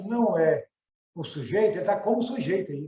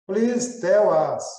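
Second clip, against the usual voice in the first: slow reading; 2 semitones higher, 6 dB louder, much slower than usual. Shown as a demonstration. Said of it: "student rereads example".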